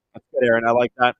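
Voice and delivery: hollow muffled mic sound; like talking inside a fishbowl. Real, not acted. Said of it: "Why does it sound like you're in a fishbowl?".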